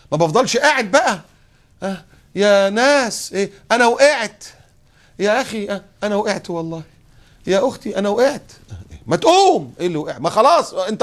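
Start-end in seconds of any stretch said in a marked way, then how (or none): 0.1-8.5 higher-pitched plaintive calling out for help; mock whining victim. Acting the fallen man crying out. 9.1-9.7 high, louder push to get up; impatient urging. Pretend. Impatient bystander urging him up.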